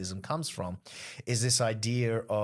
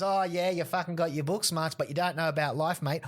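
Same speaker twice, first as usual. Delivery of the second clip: mock pub heckler; 6 semitones higher than usual. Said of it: "And the guy goes".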